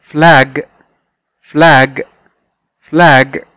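فلاج said clearly, one word at a time; فلاج with a clear final g; model pronunciation. Shown as a demonstration. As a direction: model فلاج for students to repeat. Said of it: "مرة كمان".

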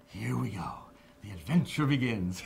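whispered, eager start; hushed excitement. Retold or imitated. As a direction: breathe it like a kid at the movies. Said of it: "Joel Silver goes".

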